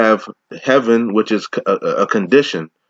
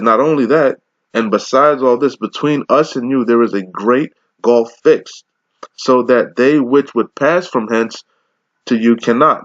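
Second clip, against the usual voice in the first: slow, raised Bible reading; preacher intoning the King James text; scripture reading. Acted. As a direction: lift the verse up and let it ring. Reads scripture in sermon.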